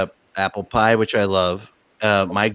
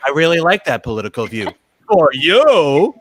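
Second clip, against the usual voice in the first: sweet then a loud, pointed "For you"; backhanded compliment; 2 semitones higher, 5 dB louder than usual. Retold or imitated. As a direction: dismiss the uncle with a smile. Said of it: "your crazy uncle ... and you go".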